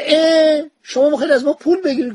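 high, quick mock disbelief; astonished. Guest acted out on learning the host charges, astonished.

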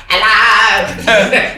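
a hint of a sing-song small-town greeting; mock Northampton local. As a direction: chirp "Hello." like a stock townsperson. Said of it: "everyone's like".

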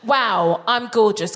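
self-admiring demo without a breath. Shown as a demonstration. Coach correcting the guest, no breath. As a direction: say WOW, I'M GORGEOUS straight through, no breath. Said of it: "Don't put a breath in there".

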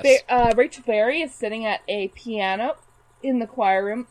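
hiccuping mid-sentence; words broken by hiccups. Real, not acted. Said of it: "Sorry, I am hiccuping a lot".

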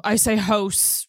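house said close to "hose"; Nova Scotian O. Shown as a demonstration. Host admits her local pronunciation, Nova Scotian "hose". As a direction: tight O vowel in house, like "hose". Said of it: "apparently I'm saying hose wrong".

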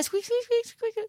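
high little squeaks; rat squeaks. Acted. Casting rat talk, squeaking to Frank.

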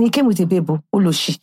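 put-on thick Nigerian accent, retelling; deep Nigerian accent. Telling a friend about a date, deep Nigerian accent. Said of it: "In my most deep Nigerian accent".

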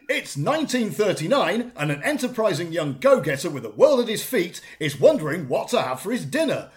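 emphatic, theatrical storytelling; hammed-up narration; speech reading. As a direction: deliver a prepared tale with big rises and falls. Reads out written speech.

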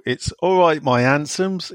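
a light West Country lilt on all right my handsomes; West Country greeting. Retold or imitated. Host greeting listeners in a mild West Country accent. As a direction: greet them like a Cornish local, lightly. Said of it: "To practice his accent".

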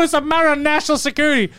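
lightly voiced self-important guy; a hint of a know-it-all secret agent; mock secret agent. Parking attendant telling mom, mild mock secret agent. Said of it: "he looks at my mom and goes".

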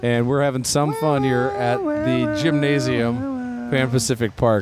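lively game announcer; sports commentary. Acted. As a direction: call the game. Play-by-play commentary.

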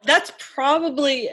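small awkward laugh into words; nervous laugh. Real, not acted. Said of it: "That's a nervous laugh".

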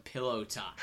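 soft pillow talk murmur. Pretend. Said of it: "late night voice".

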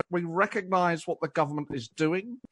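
measured, legalistic, as if through a blocked nose; Keir Starmer. Retold or imitated. Impressionist showing the host his Starmer, blocked-nose and parliamentary. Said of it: "how on earth are you doing a Keir Starmer".

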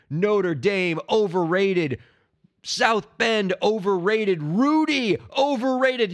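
mocking rival chant; taunting. Real, not acted. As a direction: jeer like a gloating fan.

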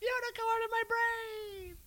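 high, faint, slow dying voice; dying whimper. Acted. Dying girlfriend's last words.

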